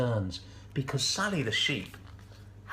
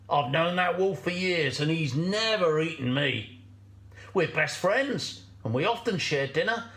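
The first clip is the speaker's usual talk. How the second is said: fox, dismissive and coaxing. Acted. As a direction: brush off the worry as a sly friend. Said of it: "said the fox".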